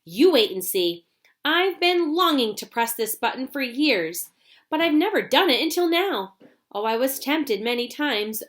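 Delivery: a hint of the gleeful inventor confessing; lightly voiced eager showman; lightly voiced Mister Wonka.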